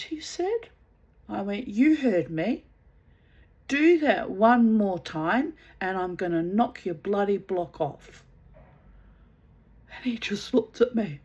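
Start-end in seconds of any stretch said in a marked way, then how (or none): 1.7-8.2 loud, hard warning; mean every word of the threat. Retold or imitated. Warning the husband to stop or be hit, a loud angry threat.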